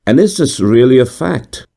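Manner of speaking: high, curious question; inquisitive. A narrator's reading. Inquisitive gentleman asking narrator, high and curious. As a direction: probe with doubt. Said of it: "said the inquisitive gentleman".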